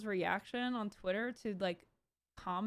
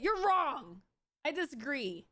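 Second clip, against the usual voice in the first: high, louder curt dismissal; mocking troll reply; 5 semitones higher, 4 dB louder than usual. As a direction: snap it back like a smug troll. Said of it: "It's like".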